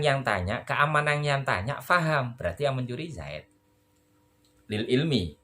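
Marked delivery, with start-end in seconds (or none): none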